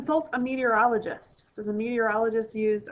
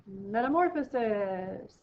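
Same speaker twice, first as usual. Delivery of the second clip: slow dramatic answer reveal; slower than usual. Shown as a demonstration.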